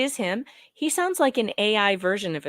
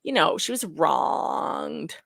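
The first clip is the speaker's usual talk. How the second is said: mock tearful plea; 3 semitones lower, much slower than usual. Mocking the speaker.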